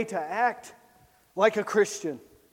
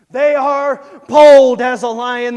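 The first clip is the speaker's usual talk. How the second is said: louder repeat; 11 dB louder than usual. Shown as a demonstration.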